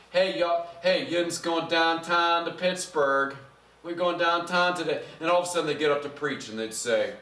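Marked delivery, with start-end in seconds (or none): 0.1-5.0 casual yinzer talk in Pittsburgh dialect; Pittsburgh accent. Acted. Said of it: "Maybe they have a Pittsburgh accent".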